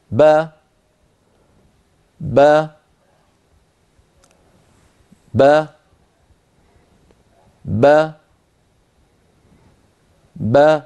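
با said slowly, one by one with long pauses; syllable drill. Shown as a demonstration. Teacher pronounces along with the animation. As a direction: open the lips and jaw for each با. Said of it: "سأحاول أن أنطق مع الصورة".

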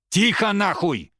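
high, loud, slow bark; angry shout. A narrator's reading. Рома shouts at the old man to shut up. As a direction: shout him down. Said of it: "крикнул Рома".

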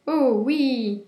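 high, loud happy cry; happy cats cheering; excited meowing chorus. A narrator's reading. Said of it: "miaulèrent les chats en chœur".

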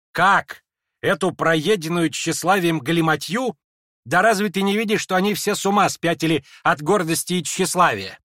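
an outraged lady snapping at the prince; indignant outburst. Acted. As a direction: fling the scorn at him. Lizaveta bursts out in indignation.

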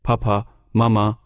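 high, loud toy squeal; doll's squeal. A narrator's reading. Boy presses the chest hard, doll squealing. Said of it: "عروسک جیغ کشید".

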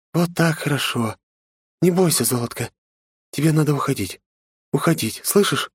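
high, gentle woman's voice; calm the frightened boy; soothing woman. Acted. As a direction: Inessa soothing the boy, then urging him away. Woman comforting boy after killing.

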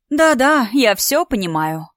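dry, knowing "yes, yes" that mocks her; ironic. Nastya brushing off Alina's excuse, ironically. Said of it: "Настя иронично покачала головой".

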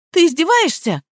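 high exasperated snap at the gardener. A narrator's reading. Heroine scolds the parroting gardener, exasperated high.

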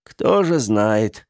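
slow, lost reply; bewildered answer. Acted. The townsfolk reply in confusion, slow and lost. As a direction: answer slowly, at a loss. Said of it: "растерянно отвечали все".

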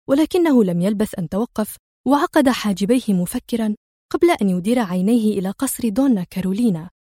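ordinary delivery

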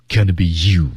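"Can be you" 整句下降; falling tune. Shown as a demonstration. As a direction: let "Can be you" fall at the end. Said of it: "降调啊". ("Can be you" 用降调)

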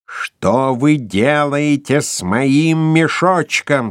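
slow, seething demand; angry questioning, drawn out; Erik's seething fury; furious. A narrator's reading. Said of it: "с яростью повторил его голос".

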